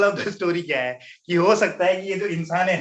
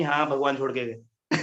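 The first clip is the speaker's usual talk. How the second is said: a chuckling quote; laughing; 2 semitones lower, 4 dB quieter than usual. Real, not acted. Recalls childhood story, laughs.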